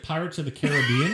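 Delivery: Caribbean as ka-ruh-BEE-un; alternate pronunciation. Shown as a demonstration. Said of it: "how do you pronounce that".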